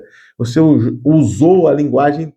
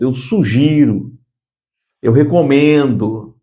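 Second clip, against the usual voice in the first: polite suggestion. Shown as a demonstration. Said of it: "E outra é sugerir".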